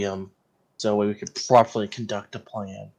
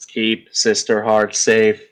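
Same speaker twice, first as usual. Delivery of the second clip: slow, deliberate quoted line; Rick and Morty quote; slower than usual. Retold or imitated. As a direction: echo the famous line, slowly. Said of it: "from Rick and Morty, keep Summer safe".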